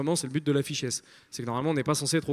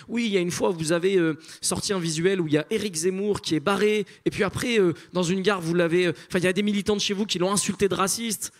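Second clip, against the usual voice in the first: mock deputy; 4 semitones higher than usual. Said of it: "il cherche ses argumentaires".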